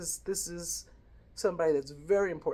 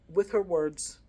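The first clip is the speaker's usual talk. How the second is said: ordinary talk, nothing marked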